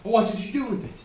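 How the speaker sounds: rising panic, pushing for an answer; panicked demand. Acted. Panicked Edgar pressing Anne for the bottle.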